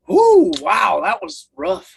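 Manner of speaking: wincing after a harsh shot; after bitter medicine. Real, not acted. Reacting right after a strong shot.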